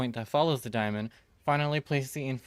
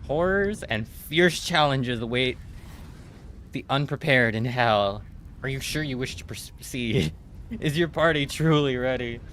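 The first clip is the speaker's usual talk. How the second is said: mock ominous narrator; 4 dB louder than usual. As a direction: ham up the spooky warning. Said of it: "They make it so scary sounding".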